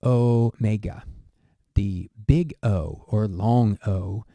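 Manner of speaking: omega said slowly and clearly; teacher demo of "omega"; Greek letter name. Shown as a demonstration. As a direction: spell out "omega" slowly, each syllable clear. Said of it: "This is".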